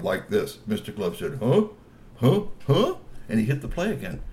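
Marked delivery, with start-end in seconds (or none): 1.4-3.0 high amazed grunts. A narrator's reading. Mister Glove fascinated.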